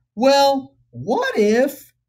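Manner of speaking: reasonable, even tone. Teaching the phrase for offering an alternate solution: reasonable tonality. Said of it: "Listen to that tonality. ... that's called a reasonable tonality".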